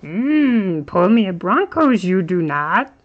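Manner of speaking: mock Yoda with words flipped round; light-hearted Yoda voice in a card break; Yoda impression. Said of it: "He says".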